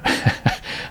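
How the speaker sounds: short unvoiced chuckle; a quick breathy laugh; soft breathy laugh. A narrator's reading. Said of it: "Larry laughed again".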